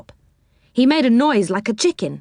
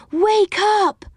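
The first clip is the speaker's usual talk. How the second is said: high squeal, hitting "Wake" and falling on "up"; 13 semitones higher than usual. Acted. Silky shaking the children awake, squealing with "Wake" punched. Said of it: "squealed Silky".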